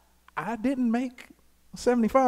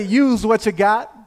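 louder, higher, slower full-chested call; 4 semitones higher, 7 dB louder than usual. Shown as a demonstration. Preacher urges congregation to say it again, loud chest voice. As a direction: belt it out slowly from the chest. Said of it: "Say it with your chest".

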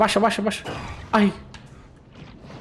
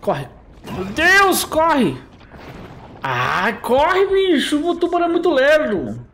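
being chased; 7 semitones higher, slower than usual. Real, not acted. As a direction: shout in panic to run away. Fleeing the shark in game.

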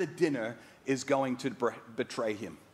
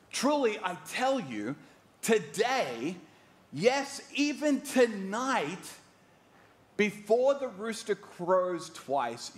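high and slow, pressing each phrase; Jesus warning Peter, slow and lifted; prophetic Jesus; 5 semitones higher, slower than usual. Retold or imitated. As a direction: foretell it gently but firmly. Jesus foretells Peter's denial.

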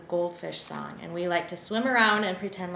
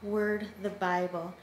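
prayer. Acted. Leads a children's prayer.

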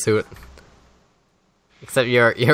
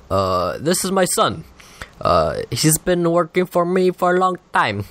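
light presidential voice, slightly higher; Obama voice; 4 semitones higher than usual. Pretend. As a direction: introduce your son as the president. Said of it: "I just changed accent so fast".

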